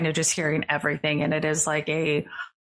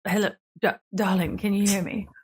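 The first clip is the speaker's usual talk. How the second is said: lightly voiced fussy NPC; 3 semitones higher than usual. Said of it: "you do hear".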